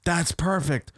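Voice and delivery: high-pitched, drawn-out stoner voice; stoned dude. Retold or imitated. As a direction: play the wasted guy, slow and spaced out. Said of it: "He's like".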